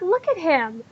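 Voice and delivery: lightly acted girlish gushing; excited squealing. Girls admiring the guest, mild excited squealing. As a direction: gush over the newcomer. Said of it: "a bunch of excited squealing".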